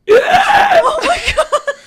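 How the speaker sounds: high, loud, drawn-out cry through laughter; big startled laughing yell; laughing shout. Real, not acted. Startled outburst in game, laughing.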